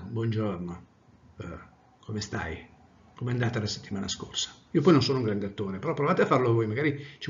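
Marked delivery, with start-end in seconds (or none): 0.0-4.5 lower, softer irritated greeting. Shown as a demonstration. Teacher demos an irritated greeting, low and soft. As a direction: grumble it, annoyed and put out.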